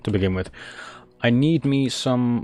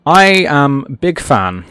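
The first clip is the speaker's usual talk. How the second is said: mock fan message; slower than usual. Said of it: "and go".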